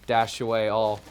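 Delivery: usual speaking voice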